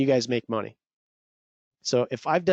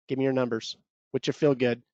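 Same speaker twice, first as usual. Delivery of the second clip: out of breath; 2 semitones lower, faster than usual. Real, not acted. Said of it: "I'm out of breath".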